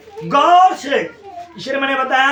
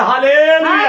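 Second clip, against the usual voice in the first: loud hallelujah; 3 semitones higher, 5 dB louder, slower than usual. Retold or imitated. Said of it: "जोर से बोलता".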